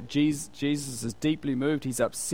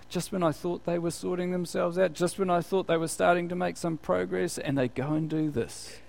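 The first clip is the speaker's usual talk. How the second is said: higher but soft, exasperated complaint; upset exasperation; 4 semitones higher, 3 dB quieter than usual. Acted. Helper whose friend has messed up again, upset exasperation. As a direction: let down, sighing at them. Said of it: "that can upset you".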